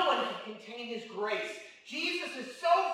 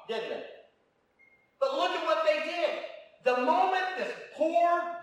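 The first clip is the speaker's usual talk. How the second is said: fervent preaching; 2 semitones higher than usual. Acted. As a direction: preach it hard to the congregation. Preaching at full force.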